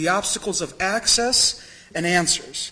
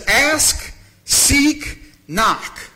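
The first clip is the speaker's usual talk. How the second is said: calling out ask and seek higher and louder; Jesus' command; 5 semitones higher, 4 dB louder, much slower than usual. Retold or imitated. Jesus inviting his disciples, a lightly raised call. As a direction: announce it like an open invitation. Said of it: "He says".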